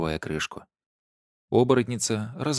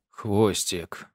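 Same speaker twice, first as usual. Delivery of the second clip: muffled, nasal word through cloth; nasal mumble through a bandage. A narrator's reading. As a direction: say it as if your mouth and nose are wrapped in a cloth. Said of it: "гнусаво объяснил волк".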